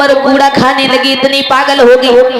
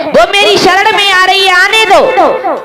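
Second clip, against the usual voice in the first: insistent Buddha; 5 semitones higher than usual. Acted. Buddha tells followers to let her come, insistent. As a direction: call out protectively, stretching the ending. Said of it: "भगवान बुद्ध कहने लगे".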